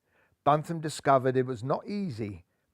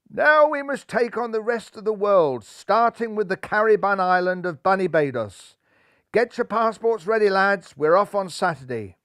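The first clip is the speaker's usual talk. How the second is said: louder, higher rallying captain; hearty skipper; 5 semitones higher, 4 dB louder than usual. Acted. Skipper rallying his team for the tour, hearty and loud. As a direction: rouse the lads for the tour. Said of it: "inquired young Rajbun".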